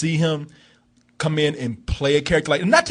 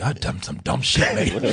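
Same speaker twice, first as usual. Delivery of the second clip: lightly voiced dumb tough guy; 8 semitones lower, 4 dB quieter, slower than usual. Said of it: "he's even having an epiphany".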